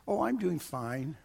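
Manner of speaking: soft, slowed reply; quiet. Retold or imitated. Pastor on the phone about his daughter's move, quiet and held back. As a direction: say it softly, holding back feeling. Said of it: "He got real quiet".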